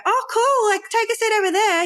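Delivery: bored, high, brushed-off "oh cool"; offhand reception greeting. Shown as a demonstration. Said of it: "you're not gonna say".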